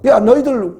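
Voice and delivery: a hint of a wronged apostle standing his ground; bold protest. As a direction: speak up for your rights as a Roman citizen. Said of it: "당당한 거예요".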